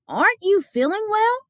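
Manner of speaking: put-on a dad checking on his child; worried Papa. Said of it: "asked Papa".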